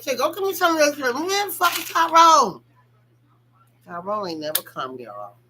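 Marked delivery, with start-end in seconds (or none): 0.0-2.6 fast, louder outburst; exasperated. Retold or imitated. Still waiting for Tyrone, an exasperated louder outburst. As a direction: throw it out, fed up. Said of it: "I'm like".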